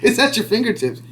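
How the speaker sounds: laughing through the words; amused disbelief, laughing as he talks. Real, not acted. Laughing while ranting about search.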